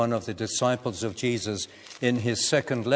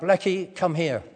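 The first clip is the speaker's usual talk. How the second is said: retold shout; 5 semitones higher than usual. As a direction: call the dog back in alarm. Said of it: "And I shouted out".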